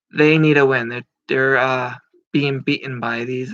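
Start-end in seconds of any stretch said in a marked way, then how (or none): 0.1-0.9 louder emphatic repeat. Real, not acted.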